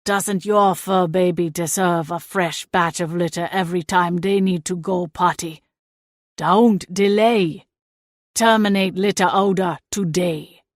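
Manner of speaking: low, lightly voiced infomercial hero; mock ad pitch. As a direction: sell it like a cheesy ad. Ad pitch by look-alike.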